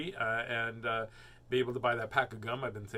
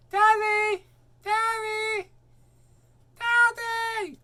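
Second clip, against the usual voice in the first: put-on high, loud child calling for daddy; little girl calling; 10 dB louder, much slower than usual. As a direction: shriek it like a small girl spotting dad. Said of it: "Does this sound like you?".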